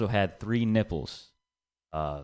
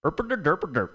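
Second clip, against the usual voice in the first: mock song gibberish; 6 semitones higher than usual. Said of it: "And the Indian part".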